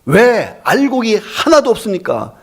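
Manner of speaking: high-pitched, slow, indignant demand; acted-out farmers' outraged challenge; angry protest. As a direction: take God to task, stretching the complaint. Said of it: "농부들이 하나님께 화가 나서 따지는 거예요".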